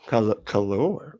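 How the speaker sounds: "color" slowly, stretched on a stressed second syllable, "co-LOOR"; fancy pronunciation. Shown as a demonstration. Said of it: "fancy, way of spelling color".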